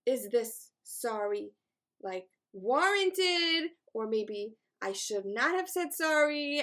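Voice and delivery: slow, drawn-out mock pondering; questioning herself. Driver second-guessing her apology after a crash, questioning. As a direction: stretch it out as exaggerated second-guessing. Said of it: "questioning myself".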